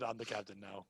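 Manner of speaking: put-on low, soft Haitian accent. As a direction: imitate a Haitian accent, quiet and deep. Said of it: "It's hard to do this Haitian accent".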